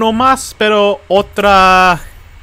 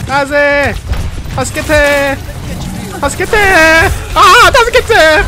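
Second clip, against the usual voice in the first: panicked call for help; 8 semitones higher than usual. Pretend. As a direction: beg desperately for rescue. Calls for help in Japanese.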